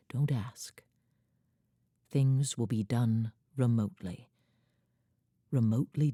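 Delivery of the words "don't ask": whispered aside. Acted. Poem line dropped to whisper.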